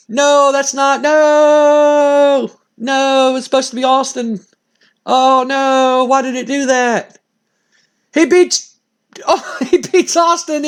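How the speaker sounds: a gamer arguing with the game's result; dismayed disbelief. Real, not acted. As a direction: protest that this can't be right.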